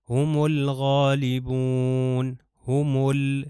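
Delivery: ہم الغالبون slowly chanted, lam of الغالبون sounded; Quran recitation. Shown as a demonstration. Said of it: "لام دیکھیے تلفظ کرو".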